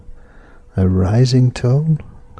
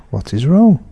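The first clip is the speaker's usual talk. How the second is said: "wrong" marked as the question's key word; 4 semitones higher than usual. Shown as a demonstration. Teacher repeating the question example to learners. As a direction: ask "What is wrong?" clearly as a question.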